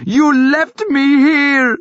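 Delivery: slow, high, loud accusing scream. A narrator's reading. Thyra screaming at her brother. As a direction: scream it at him. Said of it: "she screamed at him".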